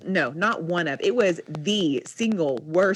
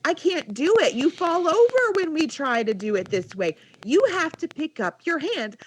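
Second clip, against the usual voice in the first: higher-pitched, retold parental pleading; exasperated parent; 8 semitones higher than usual. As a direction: reason heatedly with a stubborn child. Parent arguing with crying child.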